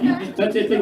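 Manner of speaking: ordinary delivery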